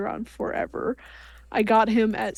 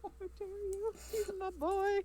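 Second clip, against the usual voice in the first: hushed mock outrage; 8 semitones higher, 12 dB quieter than usual. Mock outrage over "retro" label.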